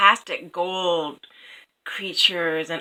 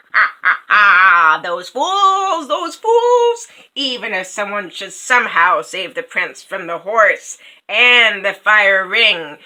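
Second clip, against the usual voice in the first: mocking raven; 3 semitones higher, 8 dB louder than usual. A narrator's reading. Third raven mocking the prince, loud then hushed. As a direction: sneer at the fools then whisper the doom. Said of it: "the third raven spoke".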